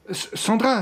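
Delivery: a startled, rising cry of her name; alarmed call. Acted. Johnny voit Sandra s'écrouler. (appel inquiet, voix qui monte)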